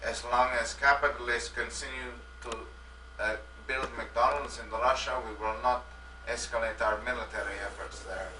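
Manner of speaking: lightly put-on Russian accent; a hint of a Russian leader. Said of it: "I am Russian Boris".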